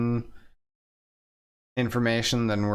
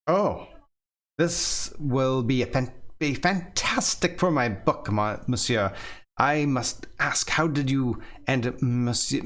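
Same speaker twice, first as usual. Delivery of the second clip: put-on Russian accent. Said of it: "channel my inner Russian".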